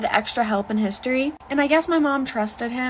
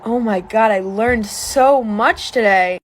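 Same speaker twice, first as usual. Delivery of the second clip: mock sister; 6 dB louder, much slower than usual. Sister quoted after tutoring.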